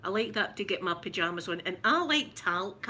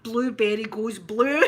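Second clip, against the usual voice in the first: laughing; 3 semitones higher, 8 dB louder, slower than usual. Real, not acted. Joke delivered laughing.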